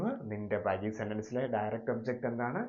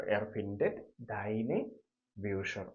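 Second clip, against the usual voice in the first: slow repeat; 2 semitones lower, much slower than usual. Shown as a demonstration. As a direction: say it again gently, word by word. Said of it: "അപ്പൊ എങ്ങനെ എഴുതും?".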